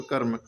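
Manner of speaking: कर्म said quickly as one syllable, "karm"; quick half r. Shown as a demonstration. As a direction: clip the r in कर्म straight onto the m. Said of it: "जल्दी से आधा रा के type का पढ़ेंगे".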